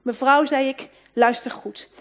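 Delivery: commanding attention. Retold or imitated. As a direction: make her listen. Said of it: "haar volle aandacht te winnen".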